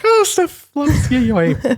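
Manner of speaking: very high, slow gush; retold squeal of recognition for a friend; excited recollection. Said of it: "I was just like".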